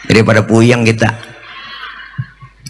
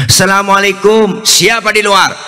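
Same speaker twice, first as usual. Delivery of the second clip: calling out; 6 semitones higher than usual. Retold or imitated. Sick man answers the door.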